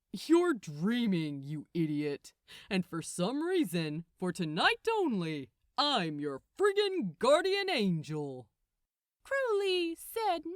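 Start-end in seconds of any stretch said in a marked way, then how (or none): 0.1-8.5 loud, exasperated archangel; impatient Gabriel. A narrator's reading. Gabriel telling Crowley he's dreaming, loud and exasperated.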